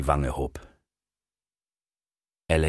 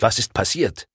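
agitated question, raised pitch; 5 semitones higher than usual. A narrator's reading. Bill asks Alex what happened, agitated. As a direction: ask urgently what is wrong, keyed up. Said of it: "fragte er aufgeregt".

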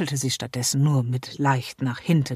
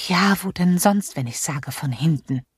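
annoyed; 3 semitones higher, 4 dB louder than usual. Acted. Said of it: "Sis verdrehte genervt die Augen".

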